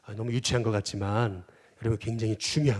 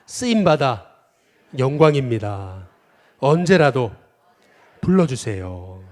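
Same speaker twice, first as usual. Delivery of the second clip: louder and slow, spaced for the crowd to echo; preacher leading a call-and-response; slow call to repeat; 7 dB louder, slower than usual. Shown as a demonstration. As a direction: declaim it slowly so everyone can repeat it. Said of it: "또 한번 따라해 보겠습니다".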